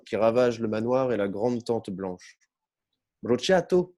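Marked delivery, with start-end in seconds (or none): 3.2-4.0 higher, lit-up burst on Bruciato; excited exclaim. Acted. Old inspector grasping the burned passport, excited exclaim. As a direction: fling out Bruciato like an explosion.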